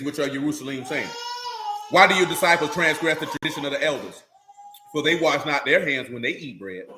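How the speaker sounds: low, even scripture recital; scripture reading. A narrator's reading. Reads scripture aloud.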